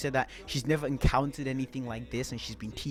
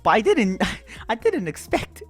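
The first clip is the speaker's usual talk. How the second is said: higher, insistent self-defence; flustered protest; 6 semitones higher, 5 dB louder than usual. Real, not acted. Storyteller defending himself to viewers, flustered and high. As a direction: protest in a raised pitch, stumbling and restarting.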